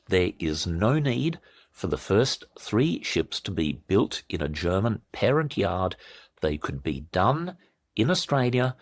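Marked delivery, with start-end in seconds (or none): 0.1-6.0 spelled out slowly and deliberately; measured, emphatic restatement for slow listeners; slow repeat. Shown as a demonstration. Commentator repeating the key point for shocked listeners, slowly. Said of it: "while I say this again slowly".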